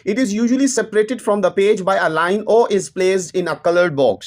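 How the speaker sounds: reads each English word slowly and deliberately; slow textbook reading. Acted. Teacher reading the book's English line to students, slow and measured. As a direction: dictate it word by word to the class.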